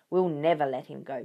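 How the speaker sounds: firm resolute declaration; declaring. Acted. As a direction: state it as a vow. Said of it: "Bunce declared".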